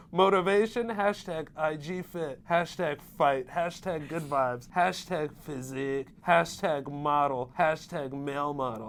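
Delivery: stretched-out caption voice; Mohira impression. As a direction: voice the hashtags like a mock L.A. bro. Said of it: "I'm gonna start voicing all of his captions".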